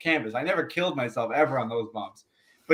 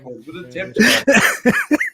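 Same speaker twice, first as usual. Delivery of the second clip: high, slow and louder through real laughter; laughing; 7 semitones higher, 7 dB louder, much slower than usual. Real, not acted. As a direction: laugh the words out, cracking up. Laughing at Marty's scam.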